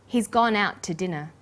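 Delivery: "out to" linked, the final t of "out" held slightly longer; one shared t sound across "out to"; consonant linking. Shown as a demonstration. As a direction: hold the t in "out" and release it into an unstressed "to". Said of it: "is held slightly longer".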